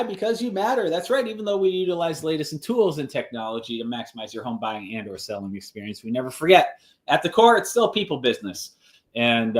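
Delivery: upbeat radio ad pitch; ad read. Acted. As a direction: sell it like a local commercial. Reads own real estate ad.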